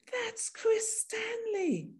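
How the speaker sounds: recalling him with sudden delight; excited recognition. Retold or imitated. Woman recognizing an old schoolmate, amazed.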